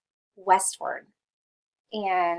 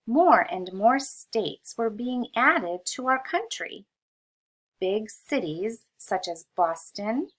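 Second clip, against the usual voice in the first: put-on reading aloud to children. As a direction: read it clearly so kids can follow. Reads textbook aloud to kids.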